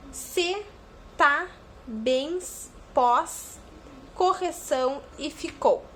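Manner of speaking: final syllables picked out one by one; each strong syllable said apart; syllables stressed. Shown as a demonstration. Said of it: "a última sílaba mais forte". (sílabas tônicas destacadas)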